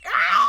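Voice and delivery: loud imitated dinosaur screech. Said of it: "screeches at them like a fucking".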